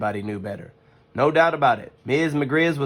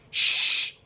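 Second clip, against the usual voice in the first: shushing. Acted. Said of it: "said brother".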